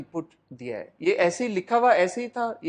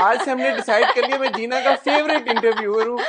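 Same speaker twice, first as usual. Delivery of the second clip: laughing; 6 semitones higher, 4 dB louder than usual. Real, not acted. Host joking, laughing while speaking.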